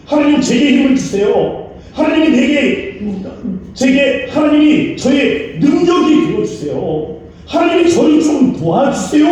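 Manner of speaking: high, loud, earnest plea; pleading prayer. Acted. A weak believer crying out to God for help, high and loud. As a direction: cry out to God for strength.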